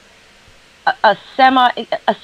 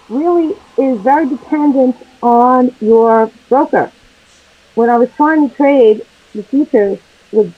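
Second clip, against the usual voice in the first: muffled, like into a trash can; muffled mic. Real, not acted. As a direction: voice dulled by a turned-away mic. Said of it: "Like you're talking into a trash can".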